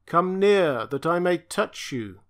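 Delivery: hesitant, wavering creature voice; faltering. Acted. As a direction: reach out haltingly, voice unsteady. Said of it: "the creature faltered".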